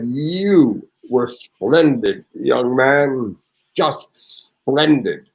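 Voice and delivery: slow, grand maestro voice, each word savored; Bernstein impression. Retelling the maestro's praise, in a slow, stately voice. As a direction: lightly play the grand old maestro praising him. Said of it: "Leonard Bernstein spoke to me. He said".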